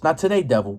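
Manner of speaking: settled, easy "Not today, devil" in normal pitch; calm dismissal. Retold or imitated. Preacher voicing Christians, calmly dismissing the devil. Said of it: "the Christians be like".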